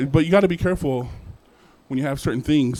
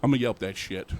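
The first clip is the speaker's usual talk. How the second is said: muttered comeback; 4 semitones lower, 5 dB quieter than usual. Retold or imitated. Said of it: "I'm like".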